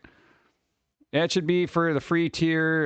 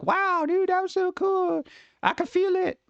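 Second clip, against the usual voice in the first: much higher, wide-eyed wonder; giddy amazement; 12 semitones higher than usual. Retold or imitated. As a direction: gush like a kid seeing magic. Marvelling at own creative work.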